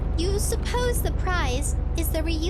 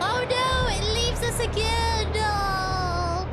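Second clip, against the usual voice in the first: excited anime fan; 7 semitones higher, slower than usual. Real, not acted. Rose taken away in game.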